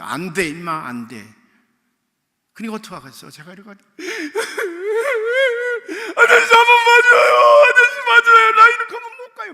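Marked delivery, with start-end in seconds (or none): 0.0-1.3 clerk snaps no. Retold or imitated. Clerk refusing again. 3.8-6.1 high wailing cry; retold loud sobbing. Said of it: "막 울었지 뭐". 6.2-9.5 high, loud sobbing plea; crying plea. Retold or imitated. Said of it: "막 울었지 뭐. 막 울었어, 내가 소리 내서".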